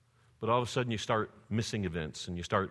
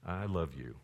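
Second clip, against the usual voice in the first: tender God's voice; 5 semitones lower, 6 dB quieter than usual. Retold or imitated. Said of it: "he'll say".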